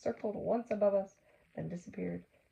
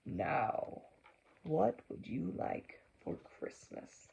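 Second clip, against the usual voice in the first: Santa asking; 2 semitones lower, 3 dB quieter, slower than usual. A narrator's reading. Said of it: "he asked".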